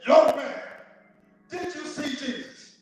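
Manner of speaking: high, loud opening, then drawn-out demand; mean, intolerant preacher. Acted. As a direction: act out a fed-up preacher questioning a man. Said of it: "mean voice says".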